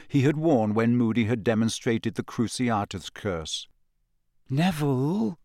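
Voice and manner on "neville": gentle. A narrator's reading. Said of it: "Hermione said gently".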